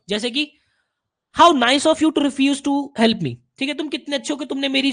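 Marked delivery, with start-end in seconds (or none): 1.4-3.4 slow, mock-sweet sarcasm; sarcastic. Shown as a demonstration. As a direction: drag it out with fake praise. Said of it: "बहुत ही sarcastically बात करोगे आप". (व्यंग्य भरे लहजे में)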